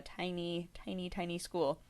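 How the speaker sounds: whispered tiny, tiny. Real, not acted. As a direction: shrink the voice down to match the word. Stressing how tiny the school.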